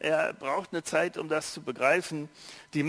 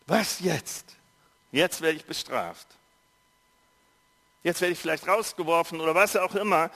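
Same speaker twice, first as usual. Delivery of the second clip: put-on frightened boy; 3 dB louder than usual. A narrator's reading. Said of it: "er kriegt einen Riesenschreck".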